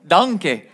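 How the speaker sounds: "Donkey" as in Shrek, like "DON-kay"; Shrek-style donkey. Shown as a demonstration. Preacher repeats his slip for the congregation, Shrek-style "Donkey". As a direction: toss out "Donkey" the Shrek movie way. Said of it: "I've watched Shrek too many times".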